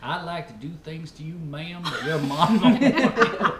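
Southern come-on breaking into a laugh; Southern accent. Acted. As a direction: play the polite Southern seducer. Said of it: "they throw the ma'am in there".

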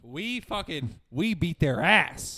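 slow, deliberate Clint Eastwood growl; gruff Clint Eastwood. Acted. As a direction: drag it out like a tough old veteran. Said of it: "Clint Eastwood was sitting next to me".

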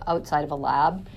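ordinary talk, nothing marked

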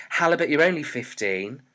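loud, emphatic telling-off; loud scolding. A narrator's reading. Shopkeeper refusing cigarettes to an underage boy, loud scolding.

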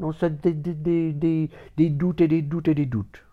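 whispered, stuttering dé- dé-; half-whispered repeating doubts; stammering doubtful whisper. Acted. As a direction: lose yourself in a whispery stutter.

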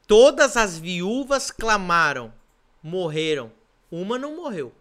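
loud, slow, rising preacher's cry; full-force preaching. Acted. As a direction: drive each line home from the pulpit. Preacher builds to climax.

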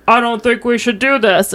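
lightly imitating a fake-sounding American voice. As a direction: put on a slightly fake American accent. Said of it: "like he's doing a fake voice".

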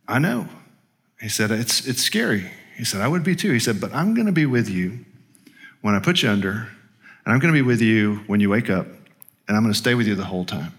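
quiet, gentle comfort; soft reassuring voice. Retold or imitated. Anesthesiologist softly comforting a scared patient, gentle and quiet. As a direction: soothe a frightened patient softly. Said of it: "And he said".

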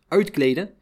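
"Uitkleden?" rising in disbelief; incredulous question. Retold or imitated. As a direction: echo the order back as a shocked question. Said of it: "vroeg ik verbaasd".

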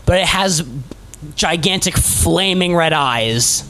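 game master narration. Acted. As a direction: draw out the monster's entrance. Game master describes the archdemon's arrival.

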